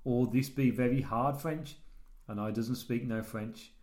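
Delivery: slow, laboured reading in broken English; Rob K. Acted. Host reads listener's letter to co-host, slow character voice. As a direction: read it as a halting, earnest simpleton.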